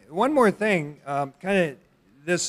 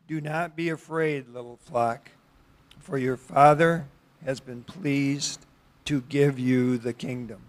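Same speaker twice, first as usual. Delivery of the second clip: measured verse reading with pauses between phrases; scripture reading. Acted. Preacher reads the day's text to the congregation, scripture reading. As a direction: read the verse out deliberately, phrase by phrase.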